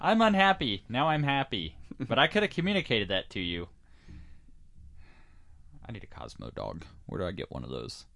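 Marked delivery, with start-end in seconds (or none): 0.0-3.7 high-pitched put-on voice; voiced dog character. Talking dog tells how it feels, high put-on voice.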